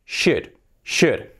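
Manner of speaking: "should" with the L left out; correct should. Shown as a demonstration. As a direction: drill "should", silent L. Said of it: "la L fuera". ("should" repetido, sin la L)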